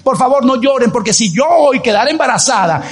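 high-pitched emphatic sermon voice; impassioned preaching. Acted. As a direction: preach it with rising conviction.

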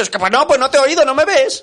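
high, loud protest, laughing at the end; mock defensive reply. Friend replaying his protest to the clerk, high and laughing. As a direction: defend yourself half laughing.

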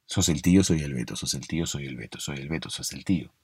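retahíla grave y muy bajita; trabalenguas repetido. Shown as a demonstration. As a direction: recita el trabalenguas por lo bajo, encadenando las frases. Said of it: "si ahora mismo lo quiero repetir". (trabalenguas murmurado en tono grave)

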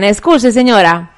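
slow, deliberate mock Italian accent; fake Italian accent. Relative asking a lady for directions in fake Italian accent. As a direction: speak Spanish slowly with a put-on Italian accent. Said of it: "Y hacía el acento".

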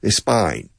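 "spine" said with the Aussie vowel, like "spine" for Spain; mock the Aussie "spine". Shown as a demonstration. Teacher showing how Australians say Spain, mock accent. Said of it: "It's not spine".

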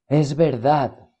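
slow, distant, inhuman voice; cold impersonal voice. A narrator's reading. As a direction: speak it like something not alive. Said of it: "Un sonido frío, impersonal".

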